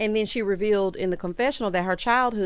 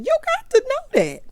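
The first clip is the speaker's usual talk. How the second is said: pleading Heavenly; 5 dB louder than usual. Retold or imitated. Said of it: "So Heavenly is like".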